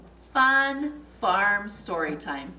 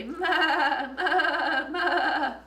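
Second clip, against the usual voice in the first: goat bleat; 5 semitones higher, much slower than usual. Pretend. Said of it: "that goat could say".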